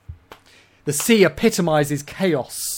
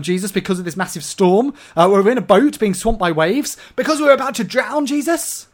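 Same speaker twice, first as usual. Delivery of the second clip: anxious plea; 5 semitones higher, 4 dB louder than usual. Retold or imitated. Voicing the disciples' plea.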